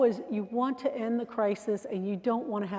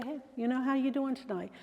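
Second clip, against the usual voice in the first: softer, easy greeting; calm friendly; 3 semitones higher, 4 dB quieter than usual. Shown as a demonstration. Trainer showing a calm greeting to an upset guest, soft. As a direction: greet them gently and calmly. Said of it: "you could say".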